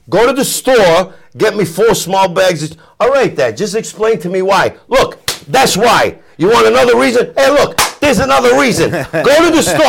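hammed-up dad barking orders to the store; mock angry father. Father sends son for popcorn, mock angry shout. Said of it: "My father".

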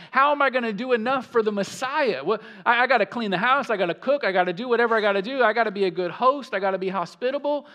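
panicked Martha. Retold or imitated. Preacher voicing Martha's panic to the congregation, fast and frantic. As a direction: voice a flustered host in a hurry.

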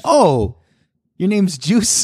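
high, acted-out "aha" moment; playful sudden discovery; mock realization. Acts out someone coining the nickname.

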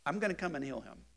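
gonna stressed, flat falling end, said as a plain promise; falling statement. Shown as a demonstration. Teacher reading the verse as a statement. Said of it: "Or is it a statement and not a question".

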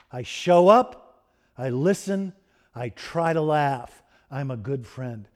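slow, each clause set apart, fading at the end; slow quoted list. Retold or imitated. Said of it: "she said".

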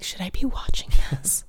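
whisper. Retold or imitated. Kid sneaking racy movie.

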